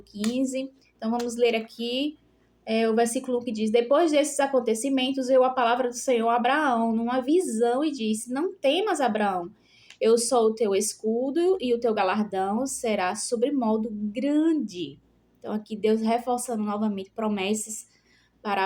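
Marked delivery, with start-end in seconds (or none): 3.7-15.0 scripture reading. Acted. Preacher reading scripture aloud to the congregation, solemn reading. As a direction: read the verse out to the church.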